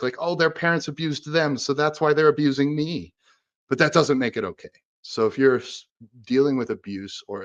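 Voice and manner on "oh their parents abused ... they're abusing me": empathetic inner voice. Pretend. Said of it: "you can be empathetic".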